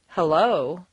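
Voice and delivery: HELLO with a questioning rising end; doubtful hello. Shown as a demonstration. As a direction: say HELLO as if unsure who is there. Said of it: "this intonation would indicate doubt".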